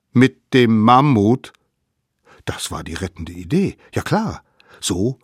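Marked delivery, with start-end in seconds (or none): 0.1-1.5 louder, slow incredulous ask; can't believe the idea; astonished question. A narrator's reading.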